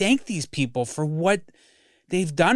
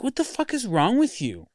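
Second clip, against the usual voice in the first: retold scream at dad; 9 semitones higher than usual. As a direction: imitate yelling at his dad, pitch up high. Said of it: "I'm screaming at my dad 'cause".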